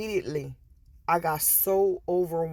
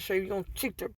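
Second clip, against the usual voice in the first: voice of Spirit; 8 dB quieter than usual. Retold or imitated. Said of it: "Spirit said".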